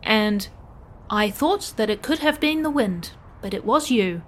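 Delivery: measured robot phrasing with pauses; robot reasoning step by step; curious literal-minded robot. Acted. Plays a robot character.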